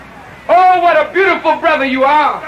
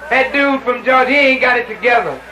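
lightly voiced low, dismissive put-down; mocking northern brother; 5 semitones lower than usual. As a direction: imitate a northerner looking down on southerners. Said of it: "by the northern brother".

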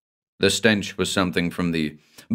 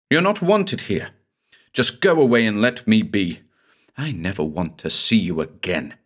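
shrill, hurt dismissal; angry. Acted. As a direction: push him away in anger. She drives him away.

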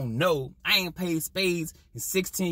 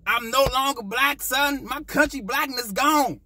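hammed-up lament; 5 semitones higher than usual. Mock lament about lost identity.

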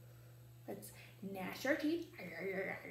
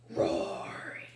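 whisper; 6 dB louder than usual. Real, not acted. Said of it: "whispered word".

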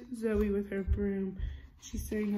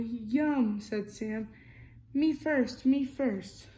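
lively storybook reading, character lines a bit louder; reading to children; 4 dB louder than usual. A narrator's reading. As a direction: read it like a bedtime picture book. Reading picture book aloud.

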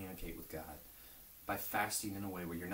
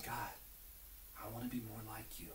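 breathy unvoiced whisper, very soft; a secret prayer breathed into God's ear; 11 dB quieter than usual. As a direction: whisper it close into his ear.

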